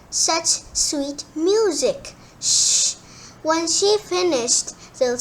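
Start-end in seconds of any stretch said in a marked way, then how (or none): 0.1-2.2 higher, slow admiring; slow awed wonder. Acted. Servants marvel at song. 2.4-3.0 sharp unvoiced shush; whispered hush. Hushing to hear bird.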